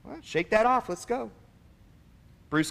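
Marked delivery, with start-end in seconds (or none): 0.0-1.3 raised-pitch imitation of a stern coach; brisk, stern order to shake it off. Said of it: "he says sternly".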